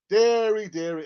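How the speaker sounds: mock exclamation. Echoing caller's phrase.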